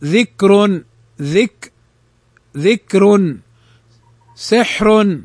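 thin final ر in ذكر and سحر; careful model words, ذكر and سحر closing on a light ر. Shown as a demonstration. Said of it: "فإنها ترقق".

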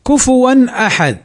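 كفوا أحد with the final n sounded clearly before the hamza; clear izhar. Shown as a demonstration. Teacher reciting a Quran example, clear n before hamza in كفوا أحد. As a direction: recite كفوا أحد, tanween n crisp, no nasal merging. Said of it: "فنطقها هكذا مظهرا للحرف".

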